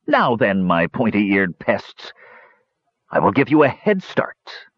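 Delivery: slow, sneering villain drawing it out; a mocking warlord toying with his prey; gloating Toad. Toad taunts the captive Kender, slow and sneering.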